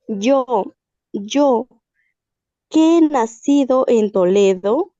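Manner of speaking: measured dramatic reading with pauses between phrases; story reading. Acted. Student reading a tale to the class, measured dramatic reading. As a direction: read it aloud phrase by phrase, letting each hang.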